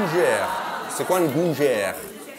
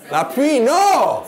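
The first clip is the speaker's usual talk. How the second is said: mock dismay; 7 semitones higher, 5 dB louder, much slower than usual. Real, not acted.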